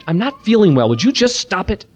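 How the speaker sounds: hammed-up sick parent snapping; retold tired parent snapping at a child; mock irritated. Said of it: "I used to rationalize my anger".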